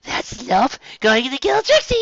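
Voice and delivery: loud, slow, excited cry about Trixie; excited shout. Real, not acted. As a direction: blurt it out, thrilled. Excited outburst before story starts.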